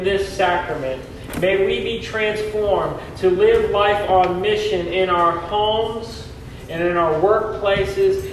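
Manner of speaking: solemn prayer in a reverberant hall; cathedral echo. Acted. Leads a closing prayer.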